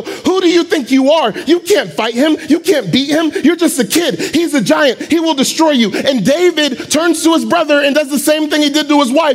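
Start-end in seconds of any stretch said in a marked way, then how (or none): 0.0-5.9 mocking big brothers. Brothers mocking young David, high taunting voices. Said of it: "they go".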